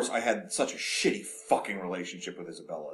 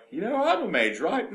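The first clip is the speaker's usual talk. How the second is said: voiced sister; 10 semitones higher, 4 dB louder than usual. Voicing Bethany.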